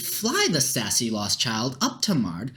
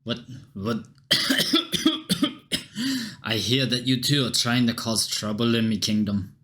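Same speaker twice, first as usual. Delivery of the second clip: put-on a light Scottish guard accent; gruff Scottish soldier, lightly voiced. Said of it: "Don't know why everyone is fucking Scottish".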